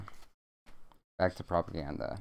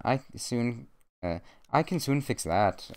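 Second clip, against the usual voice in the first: higher, badly faked Scottish accent; attempted Scottish accent; 4 semitones higher than usual. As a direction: have an amateur go at Scottish. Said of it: "I shouldn't have tried a Scottish accent again".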